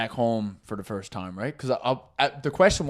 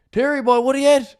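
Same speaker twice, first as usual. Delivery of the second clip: mock hearty greeting; 11 semitones higher, 5 dB louder than usual. Drunk guy greeting bar owner loudly.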